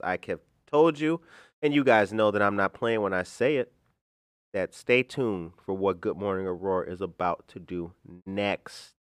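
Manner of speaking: ordinary talk, nothing marked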